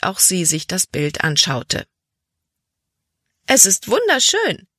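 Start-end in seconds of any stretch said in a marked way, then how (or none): 3.4-4.7 hoch und laut ausgerufen; begeisterter Ausruf. A narrator's reading. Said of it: "rief sie aus". (hoher, lauter, begeisterter Ausruf der Mutter)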